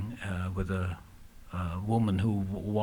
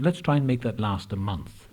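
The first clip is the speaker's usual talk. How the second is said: louder, laughing through the words; 5 semitones higher, 3 dB louder than usual. Real, not acted. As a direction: chuckle through the punchline. Laughing at wife's bottle.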